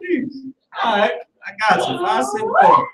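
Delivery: fast, whiny mock shopkeeper, rising very high at the end; mock Chinese shopkeeper. Mocking a store clerk giving in, fast and rising to a squeak. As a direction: rush it out, then squeak the last word.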